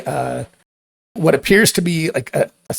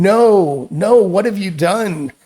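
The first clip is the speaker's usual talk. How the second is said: screaming creatures; 4 semitones higher than usual. Acted. Creatures turning on the heroes, screaming in dismay. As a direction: wail at the heroes in horror. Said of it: "start screaming".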